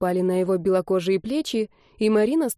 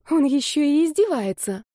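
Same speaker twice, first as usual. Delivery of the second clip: higher, tight angry words through teeth; girl near tears at his mocking, through gritted teeth; 7 semitones higher than usual. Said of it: "сквозь зубы сказала девушка".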